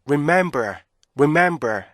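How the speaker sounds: "remember" with short "re", stretched "mem", falling end; measured rip-MEM-ber model; correct REMEMBER rhythm. Shown as a demonstration. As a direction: leave a beat after "mem" in "remember". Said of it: "이렇게 읽으셔야 되는데".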